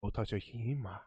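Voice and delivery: put-on quiet, light Asian accent. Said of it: "I did a little Asian accent there when I said Ghost of Tsushima".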